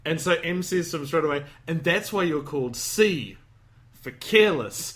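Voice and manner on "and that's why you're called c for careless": retold reveal, "C" drawn out, pause, then "for careless"; slow "called C", hold a beat before "for careless"; dramatic pause. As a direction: leave "C" hanging, then land "careless". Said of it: "And as he pauses".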